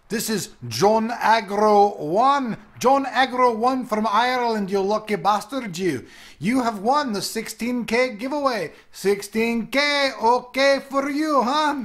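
a badly faked Irish accent for the winner; half-hearted stab at an Irish lilt; mock Irish accent. YouTuber hails contest winner from Ireland, badly faked Irish accent. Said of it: "that's not an Irish accent".

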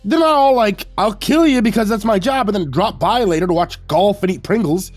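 high-pitched, loud angry rant; spitting anger. A narrator's reading. Host berating killer who drops by, furious. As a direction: spit it out, outraged and shrieky. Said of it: "I pointed at him and spat".

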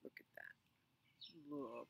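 soft, hushed wonder; awed whisper. Real, not acted. Reader whispers to the child in awe. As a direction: whisper it so the babies stay asleep.

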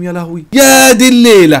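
high, loud, stretched-out cry; panicked wail. Real, not acted. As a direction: wail at this disastrous night. Reacting to the near-death scare. (ولولة عالية وممطوطة من الخضة)

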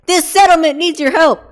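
high, loud mock rallying yell; sudden projected catchphrase shout; Preston Garvey. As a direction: imitate an urgent militiaman calling for help.

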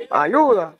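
hint of a lost soul; mock distant plea. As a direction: moan it like someone lost. Mock cry for help, other voice.

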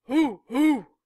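high, loud footballers' hoots; team whoop. A narrator's reading. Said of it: "pumped our fist and went".

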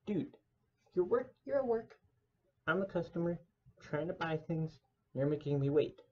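a customer fuming silently at a clerk on the phone; exasperated inner rant. Retold or imitated. Narrator's own annoyed inner thought.

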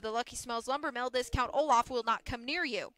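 lightly voiced boss, breezy and punchy; brusque mill boss. Mill boss closes the deal and leaves, brusque. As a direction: sell a bad deal with brisk confidence.

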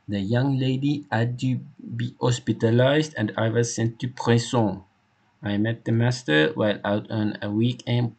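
lightly voiced Frenchman, brushing it off; French-accented loyal servant. Hector explaining his past to the inspector, light French accent. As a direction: recount a youthful folly with a French accent.

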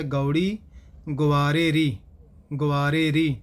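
ਗੌੜੀ, then ਗੁਆਰੇ ਰੀ as its own careful unit; pronunciation demo. Shown as a demonstration. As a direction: sound out ਗੁਆਰੇ ਰੀ distinctly, pausing after ਗੌੜੀ. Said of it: "ਇਸ ਤਰ੍ਹਾਂ ਇਸ ਪਾਠ ਦਾ ਉਚਾਰਨ ਕਰਨਾ ਹੈ". (ਗੁਆਰੇ ਰੀ ਦਾ ਸਪਸ਼ਟ ਉਚਾਰਨ)

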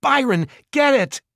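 loud, high command to attack; urgent yell. A narrator's reading. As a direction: scream the order upward. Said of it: "Simon yelled".

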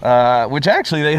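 talking around a cigar; speaking while smoking; cigar in mouth. Real, not acted. Seen 3: Left man holds cigar to lips while talking; smoke follows.

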